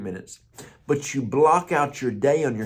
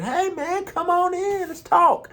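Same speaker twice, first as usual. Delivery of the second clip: put-on much higher, friendly old-timer greeting; old man's voice. Old man in nursing home welcoming young pastor, higher cheerful old voice. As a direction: pitch way up like a cheerful elderly vet.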